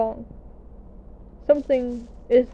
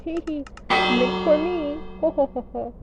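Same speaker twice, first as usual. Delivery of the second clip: giggling; 3 semitones higher than usual. Real, not acted. Giggling over toothpaste.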